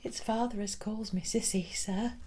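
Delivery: put-on frightened girl, whispered and soft; barely dares to answer; whispered, scared reply to the teacher; trembling whisper. A narrator's reading. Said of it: "in a trembling voice".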